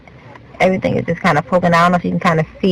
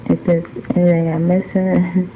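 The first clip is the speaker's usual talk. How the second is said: drowsy, drugged, half asleep; fighting to stay awake; nodding off; 3 dB quieter than usual. Real, not acted. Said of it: "'cause I'm falling asleep".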